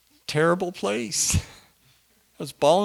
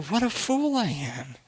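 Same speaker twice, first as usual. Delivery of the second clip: self-reproach; 6 dB quieter than usual. Retold or imitated. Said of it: "I was thinking".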